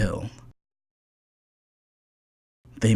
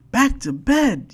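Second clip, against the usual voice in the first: storybook yell; 13 semitones higher than usual. A narrator's reading. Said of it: "yelled Ted".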